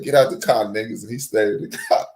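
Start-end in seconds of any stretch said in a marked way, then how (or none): 0.0-1.0 retold cop order. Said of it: "he said".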